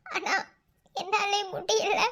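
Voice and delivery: slow, sobbing admission; breaking into tears. Acted. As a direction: give way to crying after holding up. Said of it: "தயவு செஞ்சு அழாத". (அழுகையில் உடைந்து மெதுவாக)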